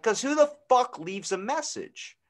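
high, slow incredulous rant; mock disbelief about voicemail. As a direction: scoff at the idea. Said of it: "I'm like".

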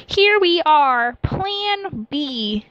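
high, loud, drawn out; loud and slow. Acted. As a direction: announce it grandly, slowly. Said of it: "said rather loudly".

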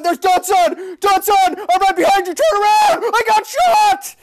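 high, loud shouts across the map; calling out to a friend. Real, not acted. Gamer shouts to friend Dunson in game, loud calling. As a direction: yell for him to turn around.

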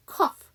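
"cough" ending in an F sound. Shown as a demonstration. Teacher gives the word for 기침하다, "cough" ending in F. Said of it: "마찬가지로 F 발음".

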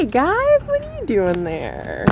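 corny, slow hammed-up delivery; overplayed showroom wonder; bad acting. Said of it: "That was corny. ... I'm a terrible actress".

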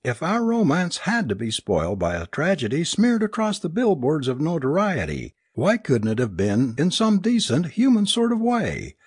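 high-pitched, distraught tirade; raving. A narrator's reading. Alice protests being picked for a cosmic joke, raving. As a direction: wail in outrage at the injustice. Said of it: "Alice raved".

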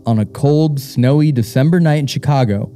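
measured, deliberate read-aloud with pauses between phrases; story reading. Acted. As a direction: read a ghost story aloud, unhurried and even. Reads out a submitted ghost story.

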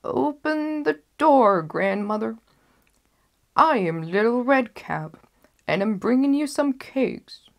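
a wolf badly faking a little girl. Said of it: "the wolf knocked and cried".

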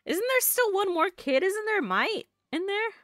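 put-on fretting in a high Southern accent. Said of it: "trying my best to talk in a southern accent".

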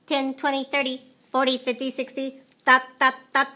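even, mechanical robot chant. Acted. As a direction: count off like a robot. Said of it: "Now what did I just say in a robot way?".

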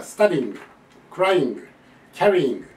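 スタディング, クライング, キャリーイング with merged endings; Japanese learners' mistake. Shown as a demonstration. Teacher listing learners' errors, スタディング, クライング, キャリーイング run together. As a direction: run each stem straight into its "ing" in スタディング, クライング, キャリーイング. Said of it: "日本人って同じ間違いをしてるんだな".

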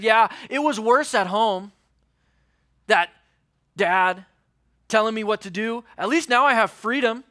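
brushing it off, proud of his freedom; mock carefree son. Son brushing off his shame, scoffing.

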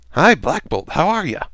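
high, sing-song hello; chirpy greeting. Acted. Deadpool teasing silent Black Bolt with a greeting, chirpy. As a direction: greet him brightly, pitched well up.

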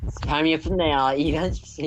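slow, stretched out disgust. Real, not acted. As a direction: drag out the ew. Disgusted reaction.

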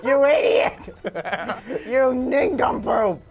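loud, laughing mock outrage; mock scolding. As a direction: hurl playful insults at a game partner. Mock insults after a fall.

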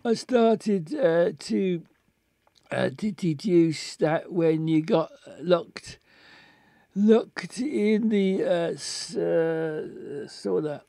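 put-on slurred, stammering drunk man; halting, tipsy detective. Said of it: "reading him like a drunk man".

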